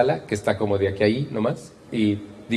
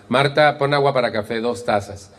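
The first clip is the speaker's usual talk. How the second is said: imitating a curt command; bossy tone to sister. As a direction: order it briskly, as to a sibling. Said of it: "¿Cambió el tono de voz?".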